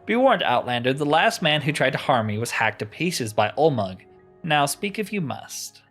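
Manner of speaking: a touch of haughty threat; lightly voiced menacing sister. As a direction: warn the intruder off, understated. Reads sister's threat aloud.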